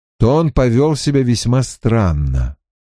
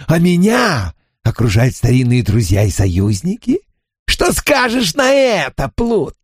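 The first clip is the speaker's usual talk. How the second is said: taunting; 4 semitones higher than usual. Acted. Spirit taunts the vagabond.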